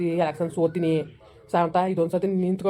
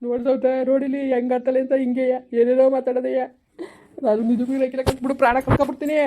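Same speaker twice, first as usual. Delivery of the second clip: higher, whiny grievance; dramatic complaint; 4 semitones higher than usual. Acted. Wife complaining to Sauta about her husband, whiny and dramatic. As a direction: play the wronged wife to the hilt.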